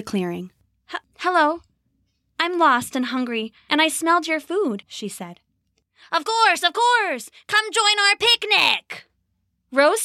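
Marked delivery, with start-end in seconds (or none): 0.9-4.8 put-on frightened girl. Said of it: "Shaking with fear". 6.1-9.1 high, slow, sugary goblin welcome; a goblin coaxing a lost girl to its picnic; fake-sweet goblin.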